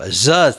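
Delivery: ZA as a drawn-out Tamil zh; special letter sound. Shown as a demonstration. Teacher showing a hard-to-pronounce letter, long curled ZA. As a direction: curl the tongue back and stretch ZA. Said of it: "find it very difficult to pronounce".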